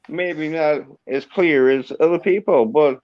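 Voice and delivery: Southern American accent, put on. Shown as a demonstration. Yorkshireman proving the American understands him, put-on Southern accent. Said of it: "I like this accent now".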